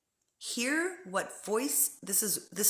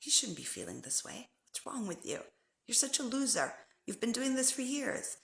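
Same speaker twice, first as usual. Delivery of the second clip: judgmental inner voice; 4 semitones higher, 5 dB quieter than usual. Retold or imitated. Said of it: "You're gonna hear the voice".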